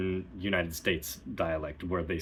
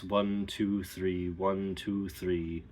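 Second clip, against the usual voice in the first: fingers at mouth corners; much slower than usual. Shown as a demonstration. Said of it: "you kind of talk like this".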